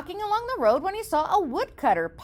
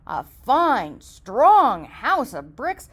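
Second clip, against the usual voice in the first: builder; 5 dB louder, slower than usual. Acted. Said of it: "replied the builder".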